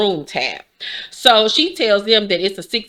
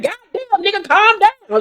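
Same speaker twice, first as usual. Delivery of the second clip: mock exasperated; 14 semitones higher than usual. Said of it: "I was like".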